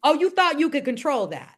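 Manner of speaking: lightly voiced teasing spirit. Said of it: "spirit will oftentimes say".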